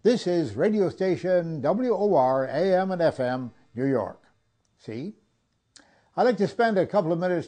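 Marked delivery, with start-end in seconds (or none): 0.0-4.2 announcer's station break, a touch lifted; am radio. Shown as a demonstration. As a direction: read it like a vintage radio ID. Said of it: "I can still do the station break".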